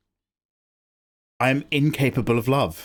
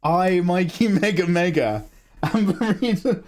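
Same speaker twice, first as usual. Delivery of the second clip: pitched-up, slow, mock-grand proclamation; grand self-announcement; 6 semitones higher than usual. Streamer crowning himself the reason a friend streamed, mock-grand. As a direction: proclaim yourself the hero, hammed up.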